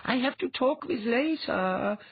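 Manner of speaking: slow, high-pitched order; commanding mind-voice. A narrator's reading. Dwea sends Althalos out of the way, commanding. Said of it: "Dwea told him".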